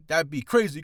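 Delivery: loud rap ad-lib call; hyped ad-lib. Retold or imitated. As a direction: hype it up like a trap ad-lib. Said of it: "they'll say something like".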